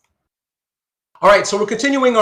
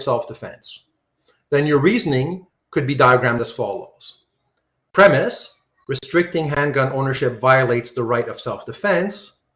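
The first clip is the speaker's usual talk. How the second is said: audiobook reading voice. Acted. Teacher reading the logic textbook aloud to the class, in a smooth audiobook voice. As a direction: read it like an audiobook narrator.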